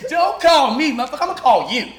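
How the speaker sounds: high and loud, grinning; high loud amused quote. Retold or imitated. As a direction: tease it back. Friend quoted, laughing.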